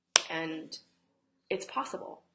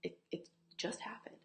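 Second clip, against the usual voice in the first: reassuring; 4 dB quieter than usual. Retold or imitated. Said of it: "I turned to the screaming in my head".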